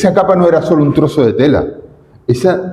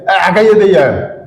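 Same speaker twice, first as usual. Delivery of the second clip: dismissive; 4 semitones higher than usual. Retold or imitated. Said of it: "los que antes le decían".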